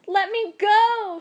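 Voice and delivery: high desperate cry, slow. A narrator's reading. Woman at the river crying to be freed, high and loud. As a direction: scream to be let go. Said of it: "she cried".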